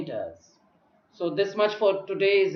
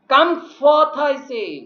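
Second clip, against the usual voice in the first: loud, higher command; ordering; 5 semitones higher, 5 dB louder than usual. Acted. Prospero orders Caliban to come forth, loudly.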